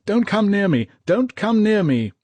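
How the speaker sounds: high, loud desperate shout. A narrator's reading. Wounded corporal warning men away, loud desperate shout. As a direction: wave them off with your voice. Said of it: "waving men away and shouting".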